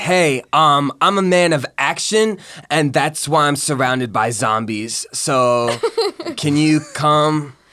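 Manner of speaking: put-on slow stoner voice. Showing the Fortnite character voice when asked: Fortnite character voice, a little higher. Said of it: "it's just a little higher than my normal voice".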